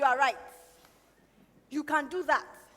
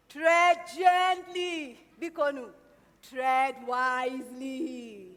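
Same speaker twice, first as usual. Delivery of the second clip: gentle counsel; 5 semitones lower, slower than usual. Acted. Mother counsels son slowly.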